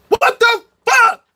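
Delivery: high, slow, loud disbelief; exasperated outburst. Real, not acted. Reacting to the incompetence, exasperated shout. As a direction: spit it out in disgust.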